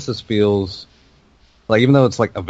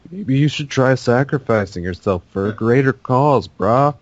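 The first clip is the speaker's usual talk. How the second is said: higher-pitched mock suggestion; passive-aggressive; 4 semitones higher, 3 dB louder than usual. Mocking the speech to Gaul, passive-aggressive. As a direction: needle him with a fake-helpful suggestion. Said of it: "Don't be, like, all passive-aggressive".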